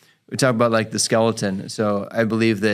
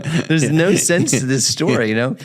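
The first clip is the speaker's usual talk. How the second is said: baffled disbelief; 4 semitones higher than usual. Retold or imitated. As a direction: stretch it out like you can't believe it. Therapist voicing his own bafflement.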